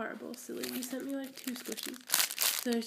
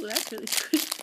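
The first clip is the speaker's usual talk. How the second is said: 1 laughing; 5 dB louder than usual. Real, not acted. Squeezing squishy, laughing.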